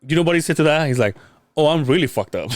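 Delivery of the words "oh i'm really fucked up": laughing quote. Retold or imitated. Patient's reaction, retold laughing.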